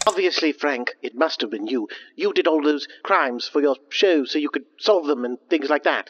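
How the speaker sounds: loud, slow accusing voice; loud accusation. Acted. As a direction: point the finger loudly. Accusing Frank in character.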